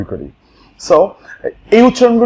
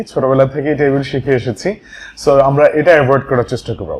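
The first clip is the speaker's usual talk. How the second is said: ordinary delivery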